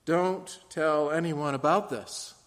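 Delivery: slow, measured warning; Jesus warning the healed man, slow and stern. Acted. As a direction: lay down the rule firmly. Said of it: "with a stern warning".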